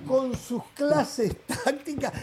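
slow, drawn-out incredulity with a chuckle; amused, incredulous slow questioning; teasing disbelief. Real, not acted. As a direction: spell it out slowly, barely holding back a laugh. Teasing colleague's claim with disbelief.

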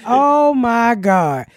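slow, drawn-out "oh my God"; retold dismay. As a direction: stretch out the retold shock. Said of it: "I was like".

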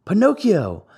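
high, loud welcoming shout. A narrator's reading. Harlequin calls Pinocchio up to the stage with a high shout. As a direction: call him up onto the stage. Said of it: "shouted Harlequin".

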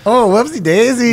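a cartoonish oops in a Latino accent. Comic plays the mistaken voter, mock Latino accent. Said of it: "let's do a Latino accent".

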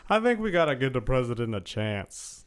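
measured presidential Obama; a hint of Obama appealing for patience; lightly voiced Obama; Obama impression. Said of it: "your Obama".

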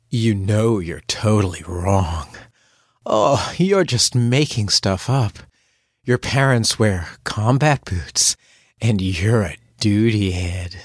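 slow, low, purring insults; slow sultry come-on; seductive tone. Shown as a demonstration. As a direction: make the insults sound like flirting. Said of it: "in a seductive tone of voice".

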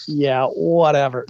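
slow, dismissive drawl; bored spirit guides. Retold or imitated. Spirit guides shrugging off a diva psychic, slow and bored. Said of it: "the little spirit guides around them are going".

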